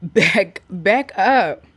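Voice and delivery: loud sharp order to back up; firm command to dogs. Real, not acted. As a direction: push the dogs back with your voice.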